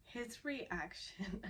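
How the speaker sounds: quiet, slow, choked-up words; fighting real tears as the words come out; holding back tears. Real, not acted. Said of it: "I'm gonna try very hard not to tear up".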